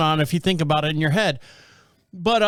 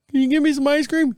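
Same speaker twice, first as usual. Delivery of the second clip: imitating his dad; 8 semitones higher than usual. Dad asking his son for ice cream, mock pleading.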